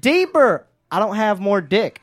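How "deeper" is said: higher, louder breathy demand; hammed-up bedroom plea; mock sexy command. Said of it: "She was like".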